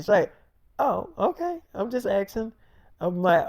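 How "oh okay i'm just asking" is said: much higher, on the edge of tears; mock-wounded, voice cracking up high; hurt girlfriend. Girlfriend stung by his snappy answer, teary and high.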